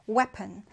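"Weapon" stressed on WEA; stress on first syllable. Shown as a demonstration. Teacher introducing the next word, "Weapon" stressed on WEA. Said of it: "첫 음절의 강세를 두고요".

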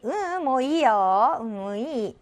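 drawn-out, familiar no-thanks; easygoing acted decline between friends; casual refusal to friend. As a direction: turn down a friend casually, stretching it. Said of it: "친구끼리니까".

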